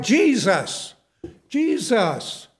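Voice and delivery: mild imitated call for help; retold crying out. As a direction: call out to Jesus, half-strength. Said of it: "He cried".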